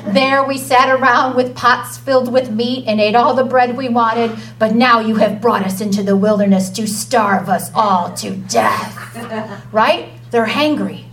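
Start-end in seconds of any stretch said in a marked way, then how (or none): 0.1-8.9 mild mock moan; moaning complaint. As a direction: keep grumbling, hard done by. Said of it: "they moaned".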